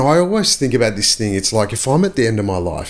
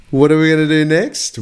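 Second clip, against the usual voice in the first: excited; 8 semitones higher, 4 dB louder than usual. Real, not acted. Rhetorical hype question to viewers.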